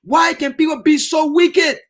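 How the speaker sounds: high, half-shouted despair; anguished Pilate. Acted. Pilate answering his wife, half-shouting in despair. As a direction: Pilate crying out his bewilderment. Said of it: "he said".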